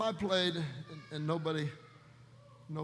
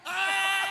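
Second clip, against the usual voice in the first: demo shout; 13 semitones higher, 5 dB louder than usual. Shown as a demonstration. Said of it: "You're not shouting".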